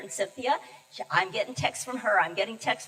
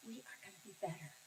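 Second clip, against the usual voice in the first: soft fast whisper; whispered, hushed and quick; whispered reassurance; 17 dB quieter, faster than usual. Retold or imitated. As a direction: breathe it to him like a secret promise. Reassuring husband in hospital.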